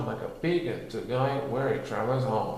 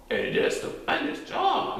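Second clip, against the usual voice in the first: laughing. A narrator's reading. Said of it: "laughed Titter".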